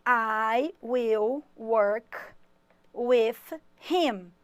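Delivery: very slow, every word laid out for the class; slow model sentence. Shown as a demonstration. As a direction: spell out each word for students to copy. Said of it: "teacher models an English sentence".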